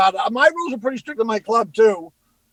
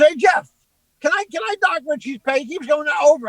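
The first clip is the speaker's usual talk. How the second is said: raised, higher-pitched complaining voice; retold yelling; 4 semitones higher than usual. Headliner yelling at his opener about time, retold yell. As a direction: imitate a bandmate hollering a complaint. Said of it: "he's yelling at me".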